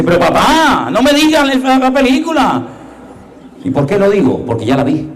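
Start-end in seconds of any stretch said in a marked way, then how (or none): 0.0-2.6 higher, whiny protest; mock the annoyed daughter; a hint of an exasperated daughter; daughter's complaint.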